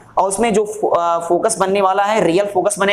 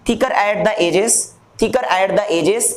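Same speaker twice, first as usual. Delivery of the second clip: deliberate, stretched key phrase; slow dictation; much slower than usual. Shown as a demonstration. Teacher describing concave lens to students, slow dictation. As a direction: repeat it slowly for note-taking.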